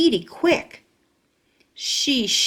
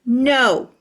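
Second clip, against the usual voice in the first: hollering; 3 semitones higher, 4 dB louder than usual. Acted. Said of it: "she hollered".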